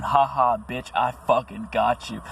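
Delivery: a slow mocking demon voice, lightly done; gloating demon. Narcissist's inner demon gloating, slow mock sneer. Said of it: "one big demon going".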